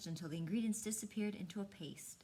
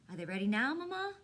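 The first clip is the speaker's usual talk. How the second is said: put-on eager boy; 3 semitones higher, 5 dB louder than usual. Buddy begging Mama about the tea cakes, eager whine. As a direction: whine it like an impatient little boy.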